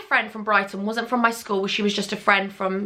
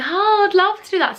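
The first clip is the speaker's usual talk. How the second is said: fake enthusiasm; 9 semitones higher, 4 dB louder than usual. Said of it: "secretly thinking I would hate it".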